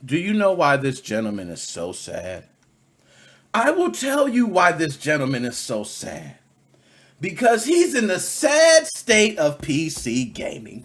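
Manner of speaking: slow, theatrical building announcement; mock dramatic reveal. Announcing the sad state of PC gaming to viewers, theatrical.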